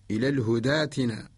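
الهدى ائتنا as one word, hudaatina; long open aa where ائتنا had a hamza; Warsh reading. Shown as a demonstration. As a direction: join الهدى to ائتنا with no catch. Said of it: "ونقرأ لورش".

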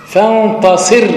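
فانتصر drawn out, final ر held with its sukun; slow demo. Shown as a demonstration. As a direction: say فانتصر slowly, stopping cleanly on the ر. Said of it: "ساكنة سكون أصلي".

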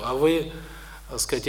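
normal talking voice

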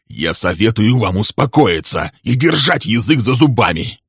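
hard, commanding rebuke; stern warning. Acted. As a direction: shut the other person up firmly. Man silences the shouting woman.

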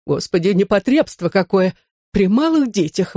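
ordinary delivery

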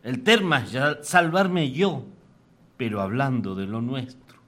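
declaimed verse in rhythmic phrases with pauses; comic folk-poem declamation; poem recital. Acted. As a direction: recite with swinging pitch, rising openings and falling line ends. Reads own poem aloud.

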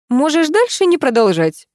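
lightly voiced grandmother interrupting; grandmother cutting him off. A narrator's reading. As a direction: stop him short, impatient. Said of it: "остановила его бабушка".

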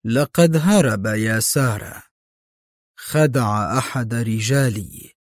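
slow, heavy words; lightly voiced slow admission; slowly. A narrator's reading. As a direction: drag each word out reluctantly. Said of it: "وهو يقول في بطء".

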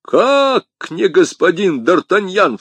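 high, loud, stretched question; astonished shout. A narrator's reading. Commissar learns he has the wrong man, shouting. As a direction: shout back in disbelief. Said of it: "в свою очередь закричал комиссар".

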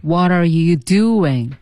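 measured, stretched syllables; slow repetition. Shown as a demonstration. Teacher leading practice, slow and clear. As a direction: say it at half speed. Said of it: "我们再说几遍".

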